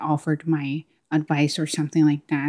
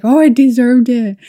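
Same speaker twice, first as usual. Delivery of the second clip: proud inner voice; 6 semitones higher, 8 dB louder than usual. Retold or imitated. Other side of back and forth.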